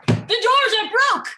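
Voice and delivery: sudden panic at the breaking doors; alarmed cry. Acted. Queen warns the king that the doors are broken, alarmed shout.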